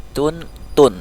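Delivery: "tun, tun": light t first, then heavy rounded t; soft then rounded t. Shown as a demonstration. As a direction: contrast a thin "tun" with a rounded "tun". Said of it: "agak dibulatkan huruf to".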